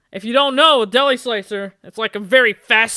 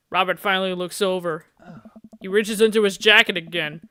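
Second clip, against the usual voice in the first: ordinary talk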